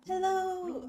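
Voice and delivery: loud high hello; excited shout. Real, not acted. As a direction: call out brightly. Greeting the character loudly.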